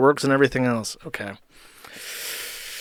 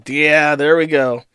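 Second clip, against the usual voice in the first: louder, slow, triumphant yeah there we go; 3 semitones higher, 7 dB louder, slower than usual. Real, not acted. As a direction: savor the win, drawn out. Repeats line with emphasis.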